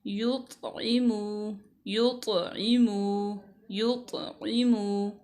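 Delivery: युत्इमु drawn out slowly, the त् bounced with a small jolt; slow qalqala. Shown as a demonstration. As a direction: stretch each syllable and let the त् echo. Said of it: "थोड़ा सा ना झटका दे के".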